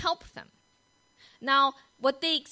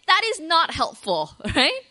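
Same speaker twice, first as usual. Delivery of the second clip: much louder and higher, fed-up protest; exasperated retort; 7 semitones higher, 10 dB louder than usual. Acted. Frightened friend protesting the useless answer, loud and exasperated. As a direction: tell them off, totally fed up. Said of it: "You would say".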